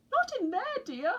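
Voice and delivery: high, a touch alarmed; mother penguin warning. A narrator's reading. Mother penguin stops chick weeing in fountain, high. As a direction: stop the chick gently but quick. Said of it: "said Missus Pilchard Brown".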